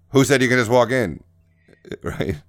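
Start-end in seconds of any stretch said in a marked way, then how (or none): 0.1-1.2 offended mayor. Retold or imitated. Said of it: "he's like".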